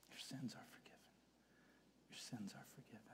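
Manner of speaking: very soft, tender absolution; gentle assurance. Acted. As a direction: drop right down, as if to one person. Gently pronouncing forgiveness to someone.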